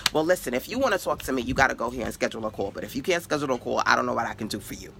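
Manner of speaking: pissy reply. Retold or imitated. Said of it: "You get pissy".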